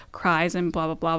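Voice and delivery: ordinary talk, nothing marked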